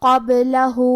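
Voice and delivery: chanted قَبْلَهُ with the final hu drawn out for two beats; two-count lengthening. Shown as a demonstration. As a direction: stretch the last vowel of قَبْلَهُ evenly. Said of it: "آواز دو مد کے برابر لمبی کریں".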